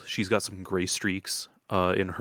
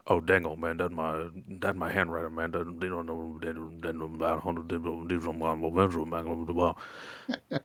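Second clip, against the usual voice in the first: mumbling lizard folk, complaining; 2 semitones lower, 4 dB quieter, faster than usual. Acted.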